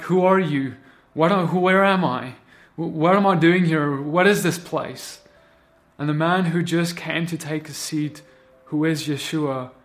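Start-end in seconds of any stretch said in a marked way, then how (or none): 0.0-5.2 confused panic. Retold or imitated. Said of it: "he's kinda like".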